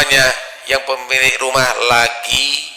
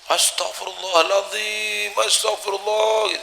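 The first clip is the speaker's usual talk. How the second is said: crying out; 10 semitones higher, 6 dB quieter than usual. Retold or imitated. Wife recognizes her ex-husband, high mock wailing. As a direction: wail astagfirullah in shock. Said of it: "istrinya nangis, jerit-jerit".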